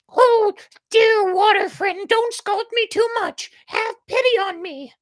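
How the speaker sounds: very high, loud, frantic plea; begging. A narrator's reading. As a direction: beg for mercy. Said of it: "begged Medio Pollito".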